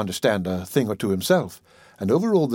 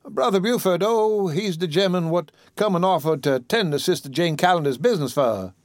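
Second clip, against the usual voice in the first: put-on higher old woman's voice, scolding fondly; chiding old auntie; 5 semitones higher than usual. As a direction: tease him like the child you raised. Dicey explains.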